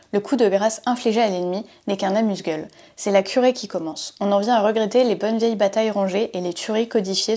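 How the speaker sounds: measured read-aloud of a novel excerpt; lightly dramatic narration from the page; book reading. Acted. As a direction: read the quotation out as a storyteller would. Reads a book quotation aloud.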